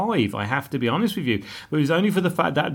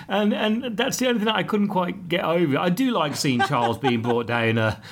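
usual speaking voice

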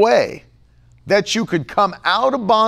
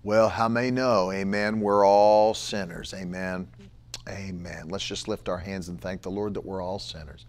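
low, hushed churchy sing-song; mock amen murmur; mock worship leader; 11 semitones lower, 9 dB quieter than usual. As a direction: parody a pious worship leader. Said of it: "and you make".

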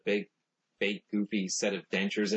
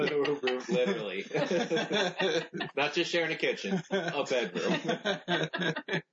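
high, giggly clarification through laughter; real laughter breaking into the words; laughing while talking; 8 semitones higher, slower than usual. Real, not acted. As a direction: crack up as you explain the joke. Cracking up over roommate joke.

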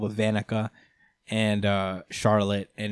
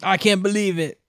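put-on voice rising higher and louder in disbelief; grumble, then swell into an indignant rant; sulking commoner voice building to outrage; Jack grumbling; 5 semitones higher, 5 dB louder than usual. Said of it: "Jack is in the corner like".

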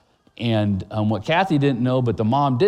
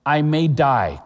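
put-on panicked child cry; 3 semitones higher, slower than usual.

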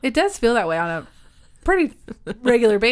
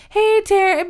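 quick, higher greeting; eager caller; 10 semitones higher, 5 dB louder than usual. Retold or imitated. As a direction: greet brightly. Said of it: "they were like".

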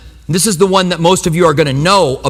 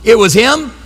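sheepish cover-up; 7 semitones higher than usual. Retold or imitated. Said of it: "And I'm like".

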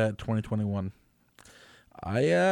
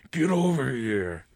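Scorpion voice; slower than usual. Retold or imitated. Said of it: "when they had the guy come".

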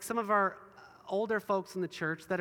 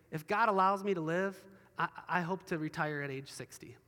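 humble, hopeful; 3 semitones lower than usual. Acted. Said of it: "what we should say is".

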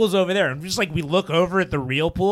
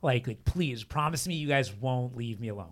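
scared plea; 3 semitones lower, 5 dB quieter than usual. Retold or imitated. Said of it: "I was, like, terrified".

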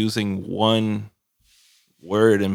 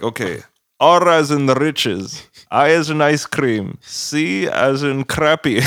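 slow, loud, higher spelling-back voice; mock customer service rep; 4 semitones higher, 5 dB louder, slower than usual. Agent spells an email back to caller, slow mock-careful voice. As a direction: spell each letter out slowly and emphatically. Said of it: "They're like".

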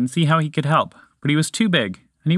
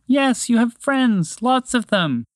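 crying openly; 11 semitones higher, slower than usual. Acted. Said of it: "cried openly now".

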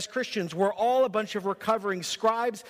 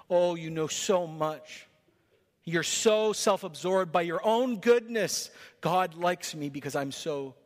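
mock pompous. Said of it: "Are you the pompous religious person".

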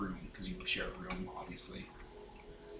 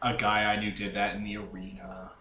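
lightly voiced deadpan crew member; monotone Fives; 3 semitones lower than usual. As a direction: keep it in an even monotone. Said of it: "I don't even think he talked like that".

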